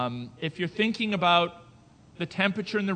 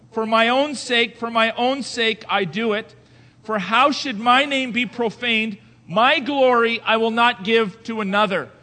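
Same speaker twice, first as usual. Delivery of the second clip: loud, higher declamation of the verse; emphatic scripture reading; 4 semitones higher, 8 dB louder than usual. Acted. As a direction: proclaim the verse.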